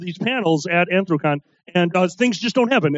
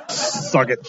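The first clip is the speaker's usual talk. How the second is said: low taunt; 9 semitones lower than usual. Retold or imitated. Punchline in put-on low voice.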